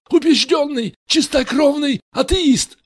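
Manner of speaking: high, loud indignant cry; cried out. A narrator's reading. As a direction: shout it in protest. Richie keeps shouting.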